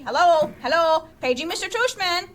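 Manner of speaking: high, loud mock announcement; a lightly hammed-up old lady on the loudspeaker; fake old lady voice. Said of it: "He was using a fake old lady voice".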